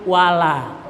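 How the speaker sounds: WALA with a clear open la; intact lam alif. Shown as a demonstration. Teacher modelling the correct reading, open la. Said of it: "utuhkan lam alif".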